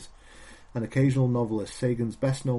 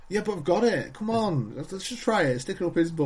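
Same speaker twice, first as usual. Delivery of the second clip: high, pleading alien voice; whiny alien; 8 semitones higher than usual. Pretend. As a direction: beg in a squeaky alien voice.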